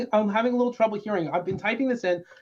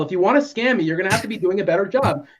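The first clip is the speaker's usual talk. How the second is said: louder, fed up with the scammer; mock angry customer; 4 dB louder than usual. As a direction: scold the fake agent. Fed-up customer on prank call.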